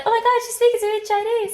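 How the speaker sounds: high, loud gushing amazement; squealing impressed; mock amazement. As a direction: gasp it out like you're dazzled. Retold amazed coworkers.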